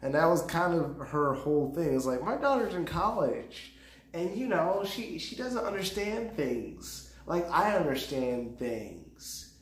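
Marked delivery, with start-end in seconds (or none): 2.2-9.5 higher, slower mimicking of a proud mother; a higher, put-on voice for the lady's bragging; imitating a lady. Mocking the woman at the comedy competition, higher voice. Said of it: "she was talking about how her daughter".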